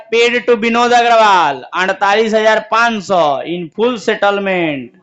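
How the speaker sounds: drawn-out, word-by-word reading; teacher dictating the settlement entry, very slow; slow dictation. Shown as a demonstration. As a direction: stretch the words for the class to write. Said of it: "अगला लिखा है".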